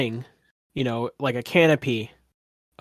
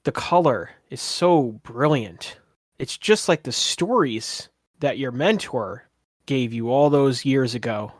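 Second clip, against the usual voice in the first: game master's narration. Acted. Game master painting the vivid colors for a player, savoring narration. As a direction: describe the vision with wonder.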